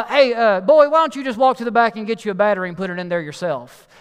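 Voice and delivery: imitated dismissive holler; yelled back. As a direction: holler it back across the room. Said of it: "He yelled back out and goes".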